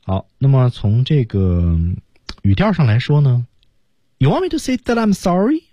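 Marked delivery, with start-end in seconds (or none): 4.2-5.6 "You want me to say that I'm sorry" pitched high, rising on sorry. Shown as a demonstration. Teacher shows learners the tune of "sorry", rising. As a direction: lift SORRY high as a question. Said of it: "升调啊".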